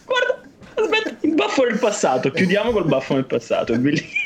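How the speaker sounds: breaking character giggling. Real, not acted. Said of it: "Scusate, ti faccio chiudere il podcast".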